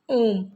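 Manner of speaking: ओम held long, triple length; ओम को लंबा खींचकर; drawn-out om. Shown as a demonstration. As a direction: stretch ओम out slowly like a chant. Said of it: "तिगुना समय लगता है".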